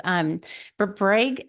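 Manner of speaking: words slurred around a retainer; talking with a retainer. Real, not acted. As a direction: speak around a dental retainer. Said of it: "I cannot talk with this retainer".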